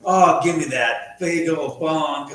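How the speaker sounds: put-on slow, lightly drawled Texas accent; retold Texas accent. To college kids, a big Texan asks for the bong, lightly imitated Texas accent. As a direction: mimic Billy Don's Texas accent, slowed down. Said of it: "Has this thick Texas accent".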